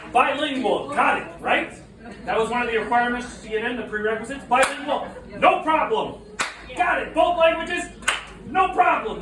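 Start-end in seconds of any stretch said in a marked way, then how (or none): 0.1-1.7 confident student. Retold or imitated. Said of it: "All of you approach the program thinking". 4.4-9.2 cocky student. Retold or imitated. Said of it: "All of you approach the program thinking".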